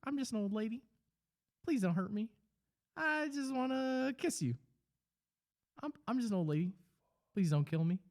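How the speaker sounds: put-on high, pleading old lady voice; squeaky scared granny begging; frightened old lady. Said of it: "a three-second video where he's like".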